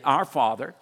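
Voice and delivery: steady, measured reciting of the Our Father; traditional recitation. Shown as a demonstration. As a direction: recite it the way the congregation always says it. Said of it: "But this is how we would say it".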